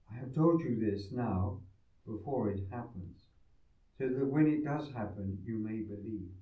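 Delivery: solemn scripture reading; formal reading. Acted. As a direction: read like a solemn lector. Gospel proclaimed at mass.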